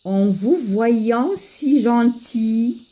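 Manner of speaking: verse modelled line by line; poem recitation for learners. Acted. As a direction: teach a poem by careful recitation. Teacher drills both stanzas.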